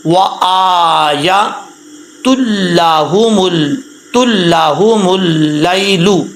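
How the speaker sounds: slow, drawn-out Quranic recitation. Shown as a demonstration. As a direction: recite the verse slowly and carefully. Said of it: "कैसे पढ़ेंगे". (धीमी तिलावत)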